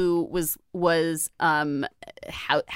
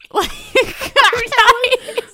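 breaking into high laughter mid-sentence; can't get the words out for laughing; squeaky giggle through the words; 13 semitones higher, 8 dB louder, much slower than usual. Real, not acted.

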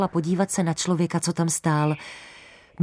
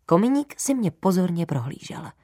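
ordinary delivery

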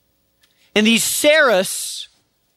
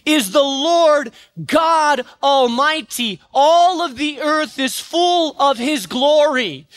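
high, ringing proclamation of the angels; angels calling out; 5 semitones higher, slower than usual. Acted. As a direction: call it out like a seraph across the temple. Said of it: "spoke loudly to one another".

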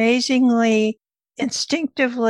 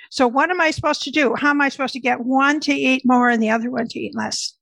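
quick, pressing questions, mildly fed up; retold exasperation; 2 semitones higher, faster than usual. Mother of two opposite eaters asking the dietitian, mildly exasperated. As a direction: imitate a frustrated mother, rushing the demand. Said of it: "she was getting madder and madder".

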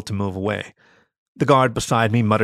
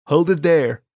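raised, higher-pitched command; loud guard ordering a stop; guard's challenge; 6 semitones higher, 5 dB louder, slower than usual. A narrator's reading. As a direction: call out a sharp order to halt. Guard orders moving car to stop.

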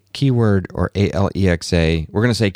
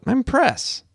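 quick correction. Retold or imitated. Correcting vendors about badge.

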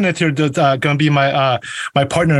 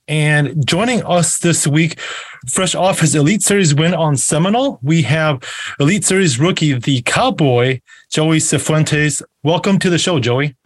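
slow, announcer-style introduction; guest introduction. Acted. Host presenting a tournament winner to viewers, announcer-style introduction. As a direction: draw out the guest's nickname and name.

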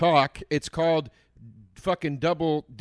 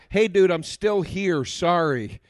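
mock lame excuse text; 4 dB louder, slower than usual. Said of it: "Sends the text at six twenty-five".

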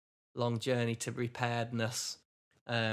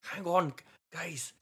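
bad Irish accent; 3 semitones higher than usual. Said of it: "doing Irish wrong".

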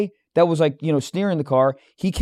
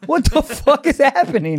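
much higher, disbelieving mock outrage; incredulous; 8 semitones higher than usual. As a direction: act out baffled disbelief at bad karma. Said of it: "I was like".

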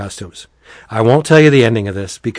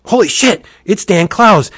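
surprised recognition; 8 semitones higher than usual. Retold or imitated. Acting Adrian's surprise at recognising someone.

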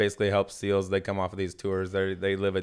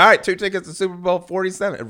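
retold announcement; 11 semitones higher, 8 dB louder than usual. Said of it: "I was like".

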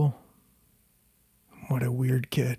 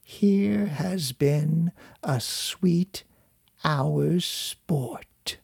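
slow, higher, fading to a whisper; chuckling old crone; 3 semitones higher, much slower than usual. Acted. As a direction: savour it like a gloating old hag. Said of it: "said the withered crone, chuckling to herself".

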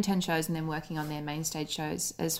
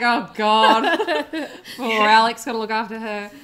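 imitating Bob's pity; 3 semitones higher, 7 dB louder than usual. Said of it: "It's like".

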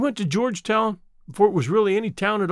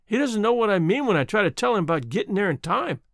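apologetic; 6 semitones higher than usual. Acted. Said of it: "she added apologetically".

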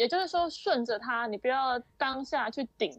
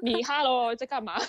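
put-on sweet Taiwanese accent. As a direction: coo it in a Taiwanese lilt. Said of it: "还是觉得很酥".

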